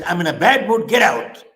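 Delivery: retold outburst, moderately loud; bad-tempered retort. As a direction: imitate a stressed mother sending her son away. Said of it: "Her son wanted to play with her".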